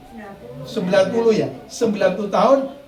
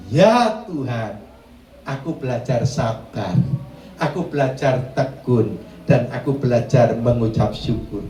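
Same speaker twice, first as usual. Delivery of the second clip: pious prayer; 9 semitones lower than usual. Acted. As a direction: pray it low and meek, drawing out ya Tuhan. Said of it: "Pada waktu engkau berkata". (doa yang rendah hati dan pelan)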